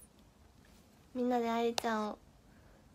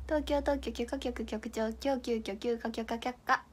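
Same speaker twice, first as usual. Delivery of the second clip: 東京特許許可局局長 said slowly, every syllable crisp; slow, deliberate tongue twister; slow careful tongue twister; slower than usual. Shown as a demonstration. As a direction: enunciate each kana slowly.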